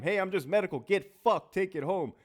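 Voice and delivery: mock medical staff. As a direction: toss it off like a fed-up nurse.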